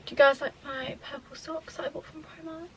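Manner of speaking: breathless after climbing stairs; panting a little between words; out of breath. Real, not acted. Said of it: "I am so out of breath".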